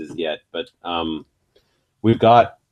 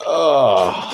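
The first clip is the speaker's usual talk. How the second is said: groan; 4 semitones higher than usual. Real, not acted. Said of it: "I'm breaking down".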